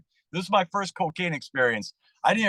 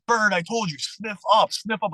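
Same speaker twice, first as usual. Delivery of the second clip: mock scolding, pitched a bit higher; retold exasperation; 4 semitones higher than usual. Friend scolding him for wasting coke, mildly angry. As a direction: imitate a friend losing patience. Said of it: "now he's getting angry".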